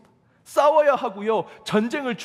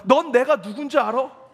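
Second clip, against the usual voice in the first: the same line thrown back louder, leaning on 넌; louder mock-angry retort, stress on 넌; angry comeback; 4 semitones higher, 6 dB louder than usual. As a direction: imitate the pastor snapping back in anger. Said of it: "화가 나서 같이 이렇게 얘기했습니다".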